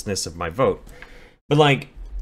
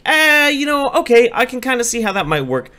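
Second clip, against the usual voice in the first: mock grudging acceptance; 4 dB louder than usual.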